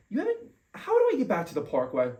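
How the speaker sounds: high, cracking whimpered plea; mock whimper. Retelling pleading with the cop, a high mock whimper. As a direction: whine it like he's about to cry.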